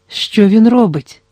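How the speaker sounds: anxious question. A narrator's reading. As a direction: draw it out with rising alarm. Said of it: "спитала жінка".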